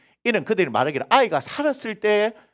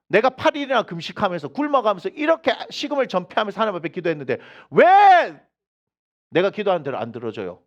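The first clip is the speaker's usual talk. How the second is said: imitating a whiny complaint to God; mock complaint. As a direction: play the sulking believer, lightly. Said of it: "우리 이렇게 한단 말이에요".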